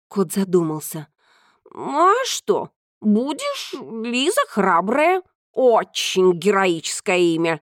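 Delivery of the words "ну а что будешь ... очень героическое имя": a hint of a proud cat; lightly voiced cat. Cat speaking.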